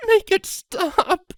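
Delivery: very high slow filly plea; weak pleading. Acted. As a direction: plead weakly through the pain. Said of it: "she pleaded weakly".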